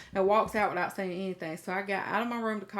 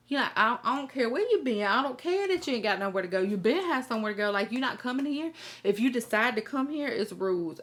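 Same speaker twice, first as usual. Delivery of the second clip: firm scolding; 3 semitones higher, 3 dB louder than usual. Retold or imitated. Tough love lecture to daughter.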